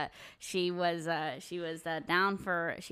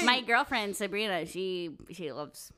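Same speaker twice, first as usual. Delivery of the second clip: cartoon voice; slower than usual. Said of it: "He sounds like a cartoon character".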